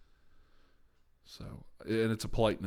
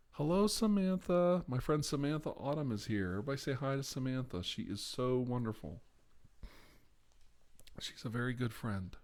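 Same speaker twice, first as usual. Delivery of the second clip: 1 sing-song greeting; 4 semitones higher than usual. Real, not acted. Greeting a friend in chat, sing-song.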